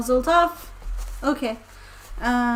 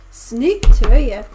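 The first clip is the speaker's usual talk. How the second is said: slow careful practice; 10 dB louder, slower than usual. Shown as a demonstration.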